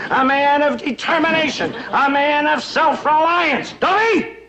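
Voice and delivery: slow, rising shout ending in a high yelp; rousing shout. Acted. Proud ex-sergeant lecturing the boys, rising to a shout. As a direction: build to a high bark. Patriotic speech peaks into shout.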